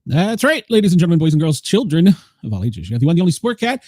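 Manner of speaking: booming ringmaster intro. Acted. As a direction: announce it like a circus ringmaster. Show intro announcer hype.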